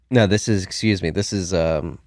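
talking through a coming sneeze; about to sneeze. Real, not acted. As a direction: sneeze building up. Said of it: "oh, I gotta sneeze again".

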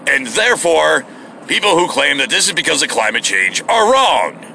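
mock a smug talk-radio host; Rush Limbaugh voice. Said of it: "And he's like".

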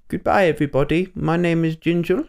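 a lightly voiced posh English accent, mouth made small; struggling attempt at a posh English accent, like the Queen. Host signs off in a half-hearted posh English accent. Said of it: "I'm trying to do a very posh accent".

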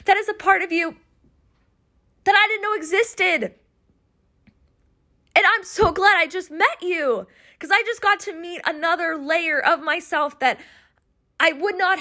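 high, moved voice on the verge of tears; getting emotional. Real, not acted. Recalling seeing herself in the mirror, high and moved. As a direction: let the feeling lift the voice. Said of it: "I'm, like, getting super emotional".

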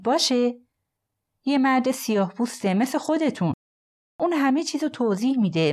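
Nathan's pleading voice. Acted. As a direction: talk fast and anxious, insisting.

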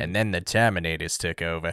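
put-on low voice drifting into an Australian accent; accidental Australian twang; slightly Australian accent. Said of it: "I don't know why I went very Austra".

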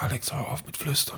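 soft hushed command; whisper. Retold or imitated. Owner asking Alexa to stop whispering, still whispering. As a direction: whisper the order to the speaker. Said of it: "hab geflüstert".

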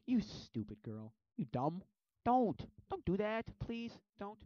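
loud, high mock despair; scold, then beg loudly; exasperated pleading. Viewer begging a movie character, exasperated.

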